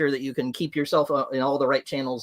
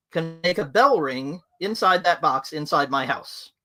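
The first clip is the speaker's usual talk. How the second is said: lightly put-on posh English accent, pitched higher; a reserved English gentleman, hinted in received pronunciation; 4 semitones higher than usual. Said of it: "is in a posh accent".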